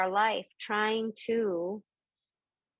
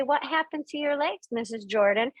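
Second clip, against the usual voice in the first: gently curious question, pitched up; nicer, more restrained curiosity; asking nicely; 4 semitones higher than usual. Shown as a demonstration. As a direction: model a polite way of asking. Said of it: "maybe you should ask in a nicer way".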